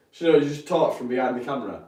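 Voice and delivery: asking through a laugh. Real, not acted. Streamer laughing at his own camera trouble, laughing. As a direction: giggle your way through the question.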